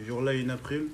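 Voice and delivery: English title in a French accent. Real, not acted. Guest naming his first anime, French-accented English. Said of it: "Désolé pour la prononciation".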